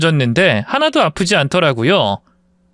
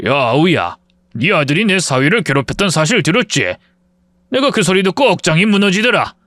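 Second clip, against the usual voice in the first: put-on stern older brother. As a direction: confront him gravely. Father-in-law confronts his brother.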